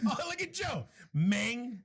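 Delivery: put-on playful thick Spanish-accented English; parents' heavy accent. Host imitating his parents for co-host, heavy Spanish accent. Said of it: "see if I can replicate it".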